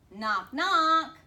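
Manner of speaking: loud playful knock knock; high, eager coaxing; coaxing call. Acted. Coaxing child.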